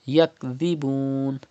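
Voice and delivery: Yakdhibun with a soft th-like dhal, no whistle. Shown as a demonstration. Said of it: "pronounce dhal without whistle sound".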